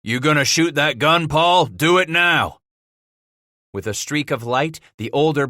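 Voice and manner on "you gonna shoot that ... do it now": raised, high urgent demand; crying out. A narrator's reading. Gamble wheels on Paul to fire the cannon, crying out. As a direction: cry out and press him to fire.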